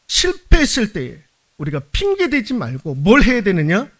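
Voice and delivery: usual speaking voice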